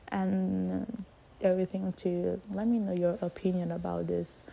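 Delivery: muffled through a face mask; talking behind a mask. Real, not acted. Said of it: "because I have this mask on my face".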